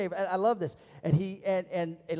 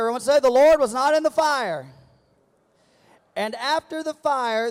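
loud, climbing sermon cadence, each phrase punched; preaching at full force; 6 semitones higher, 11 dB louder than usual. Acted. Preacher booming the story to the congregation, rising. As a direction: drive the story up like a storm. Preaching builds through the storm.

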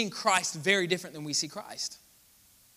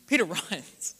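Peter, then a laugh breaks in before runs. Real, not acted. Repeated punchline, second with laugh.

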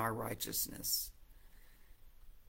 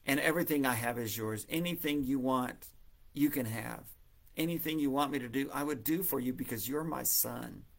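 gentle, lightly voiced father reassuring his son; loving father. Father lovingly reassures his resentful older son, tender. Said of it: "the father lovingly says".

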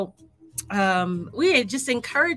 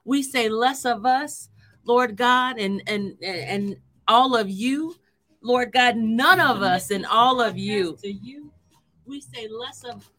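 prayer. Acted. Leads an opening prayer.

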